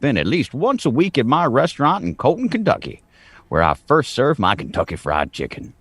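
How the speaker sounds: lightly voiced Southern colonel; a hint of a pompous old colonel. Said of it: "and I will do the Colonel voice".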